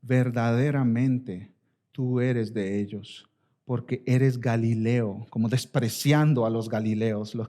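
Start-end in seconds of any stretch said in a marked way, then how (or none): 0.0-5.3 slow, scornful finger-pointing; scornful accusation. Retold or imitated. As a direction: spell it out slowly with contempt. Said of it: "dijeron otra vez a Pedro".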